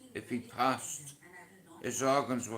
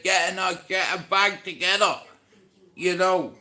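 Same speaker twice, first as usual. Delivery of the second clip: urgent; 7 semitones higher, 9 dB louder than usual. Retold or imitated. Mother urging him to pack.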